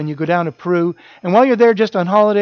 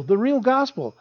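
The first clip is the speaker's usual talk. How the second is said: mock amazed; 5 semitones higher than usual. Quoting people's amazed reaction.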